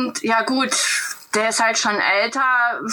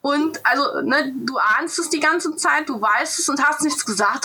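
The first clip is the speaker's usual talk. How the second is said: raised pitch, mock-outraged retelling; retelling how the friend kept it secret, a mock-indignant raised pitch; sarcastic indignation; 5 semitones higher than usual. Telling the host how she confronted her friend, mock indignant.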